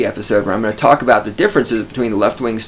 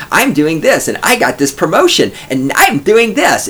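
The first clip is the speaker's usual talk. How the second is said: higher, hammed-up self-absorbed brag; mocking bragging woman; 5 semitones higher than usual. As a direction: mimic her bragging, pitched up. Mocking self-centered coworker.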